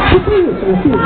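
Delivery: incredulous mock surprise at the kid. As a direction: jump up in pitch, mock horror. Fake shock at child.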